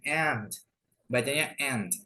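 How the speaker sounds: aunt said like "ant"; correct pronunciation. Shown as a demonstration. Teacher introducing the word to learners, aunt read as "ant". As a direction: say "aunt" with no u sound. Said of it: "nah ini bacanya".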